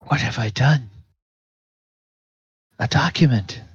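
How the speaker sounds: a hint of horrified clerk staring at a crumpled page; shocked dismay. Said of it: "she seems almost shocked".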